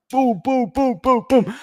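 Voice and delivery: very high-pitched repeated booms; rapid-fire imitation. Host imitating comments pouring in after cancellation, high staccato booms. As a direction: pop each boom out high, like incoming hits.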